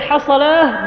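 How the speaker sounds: حصلاه run together as one word, hasalaah; contracted call. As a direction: squash hayya ala s-salah into حصلاه. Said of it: "بعض المؤذنين اختصارا يقول". (حصلاه مختصرة مدغمة)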